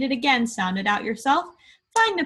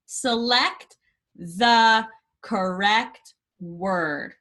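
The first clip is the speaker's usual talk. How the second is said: read-out prompt; much slower than usual. Acted. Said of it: "recorded instruction voice".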